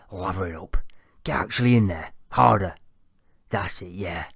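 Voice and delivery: unvoiced lecherous whisper; leering whisper. A narrator's reading. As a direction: whisper it creepily.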